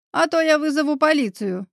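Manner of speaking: mildly squealed warning; restrained shriek. A narrator's reading. Woman threatening intruders with police, in a restrained shriek. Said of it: "взвизгнула Елена".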